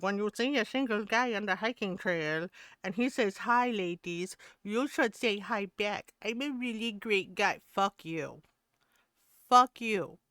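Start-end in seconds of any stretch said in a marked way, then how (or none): 0.0-7.6 mocking smug nice guy. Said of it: "It's like". 9.5-10.2 louder real outburst. Real, not acted. Answering the hiking guy video.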